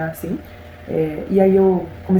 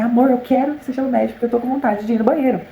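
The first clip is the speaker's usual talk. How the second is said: stressed plea; 5 semitones higher than usual. Retold or imitated. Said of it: "bem estressado e falei assim".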